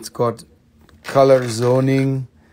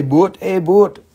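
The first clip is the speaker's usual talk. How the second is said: South African accent, higher and louder; shown-off snippet of South African accent; South African accent demo; 6 semitones higher, 5 dB louder than usual. Shown as a demonstration. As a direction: try a punchy South African accent on the words. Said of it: "but I could say".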